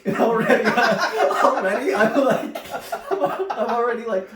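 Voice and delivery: talking through real laughter, high and loud; cracking up. Real, not acted. Telling friends about the ride with brother, cracking up. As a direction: laugh helplessly while trying to tell it.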